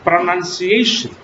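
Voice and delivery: teacher's model "pronunciation", each syllable clear; exact pronunciation. Shown as a demonstration. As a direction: enunciate "pronunciation" as a model word. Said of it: "The exact pronunciation is".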